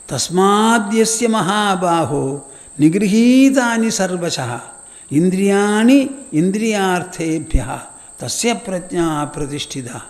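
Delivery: measured recitation, slowing at the end; sermon verse recitation; recited verse. Shown as a demonstration.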